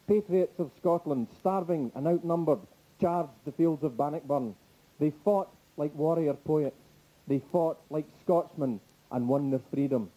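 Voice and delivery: measured, weighty narration in a low pitch; impassioned voiceover. Retold or imitated. Comic quoting the film's closing narration, impassioned low voiceover. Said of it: "the impassioned voiceover that comes up".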